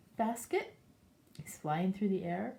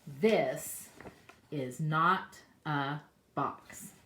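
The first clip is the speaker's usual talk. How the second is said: slow, loud, deliberate rabbit; firm rabbit; 3 semitones lower, 5 dB louder, much slower than usual. Acted. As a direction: rabbit spelling it out slowly. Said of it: "What do you think the rabbit's going to say?".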